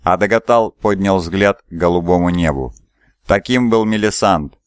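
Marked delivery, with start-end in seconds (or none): 3.2-4.5 gurgling fish man croak. Acted. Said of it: "раздался в мозгу булькающий голос существа".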